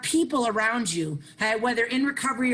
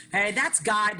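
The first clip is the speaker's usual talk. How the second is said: ordinary delivery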